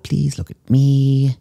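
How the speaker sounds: high, slow coaxing call; coaxing command. Acted. Psychic coaxing the chameleon to look at her, slow high call.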